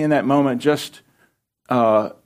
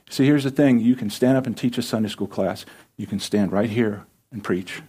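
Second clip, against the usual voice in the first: ordinary talk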